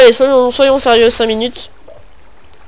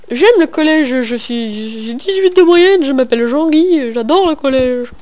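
mock keen pupil; 3 semitones higher, 4 dB louder than usual. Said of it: "Non, je rigole".

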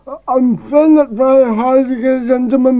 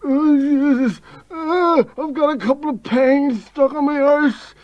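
mock groaning pain. Robert in pain after fall.

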